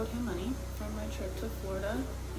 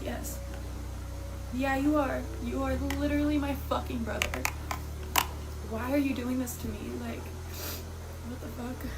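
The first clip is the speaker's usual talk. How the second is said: louder, higher hurt protest; retold upset outburst; 4 semitones higher, 4 dB louder than usual. Sister retells shouting at her brother, hurt anger. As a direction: throw it back at him in disbelief.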